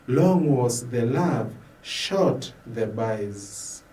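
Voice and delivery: rising and falling lines, fading at the end of each line; poetry reading. Acted. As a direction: recite it like a spoken-word love poem. Recites love poem.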